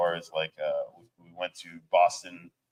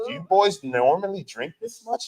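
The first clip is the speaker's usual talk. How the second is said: high, louder mock concern; imitated concerned question; 11 semitones higher, 5 dB louder than usual. Johnny questioning the drinking band, imitated concern. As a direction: imitate an uneasy onlooker, pitched way up.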